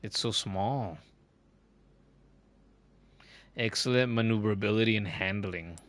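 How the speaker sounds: light put-on Australian accent, mate on every line; playful mock Aussie streamer voice. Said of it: "I'm stuck with an Australian accent".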